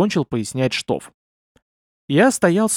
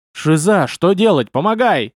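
ordinary delivery, nothing marked

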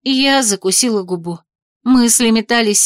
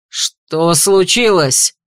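a touch of a roar, slow and louder; 3 semitones lower, 4 dB louder, much slower than usual. A narrator's reading. Ardan bursts from the portal, roaring. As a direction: bark the question on arrival. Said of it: "взревел он".

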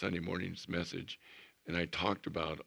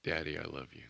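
tender prayer; 3 semitones lower, 4 dB quieter than usual. Shown as a demonstration. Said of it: "opening prayer to God".

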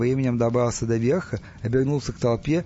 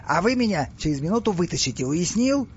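higher-pitched insistent instruction; commanding pharaoh; 5 semitones higher than usual. Acted. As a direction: make sure the slave understands. Impatient pharaoh orders his slave. (властно, требовательно)

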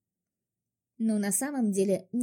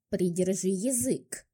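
through gritted teeth; slower than usual. Acted. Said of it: "процедил парень".

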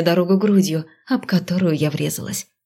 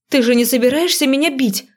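wary; 7 semitones higher than usual. A narrator's reading. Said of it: "настороженно поинтересовалась я".

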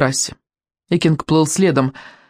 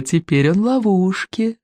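slow gloating hiss; hissing dragon head; 3 semitones higher than usual. Acted. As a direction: savour the trap with a hiss. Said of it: "прошипела вторая голова".

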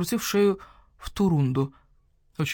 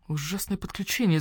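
hiss; 3 dB quieter than usual. Acted. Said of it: "зашипел барсукот".

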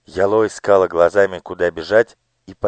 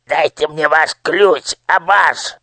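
demanding, higher and louder; raised voice; 9 semitones higher, 5 dB louder, slower than usual. Acted. Minister demanding the key from Abash, raised voice. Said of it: "повысил голос Нушрок".

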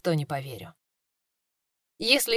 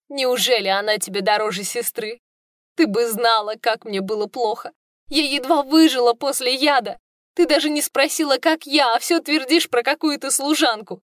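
wounded sister; 4 semitones higher than usual. Acted.

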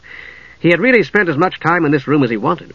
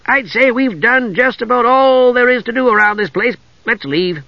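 higher-pitched, lively kender voice; eager kender; 10 semitones higher than usual. A narrator's reading. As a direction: play a chirpy, restless kender. Tass speaks, eager kender.

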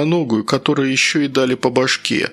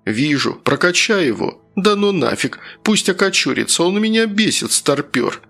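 excited jeering; 5 semitones higher than usual. Acted. Gamers mocking old man.

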